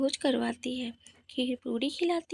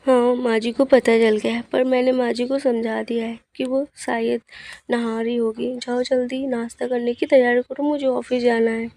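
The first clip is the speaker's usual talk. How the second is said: hurried husband; 2 semitones lower, 7 dB louder than usual. Acted. Husband replies to wife.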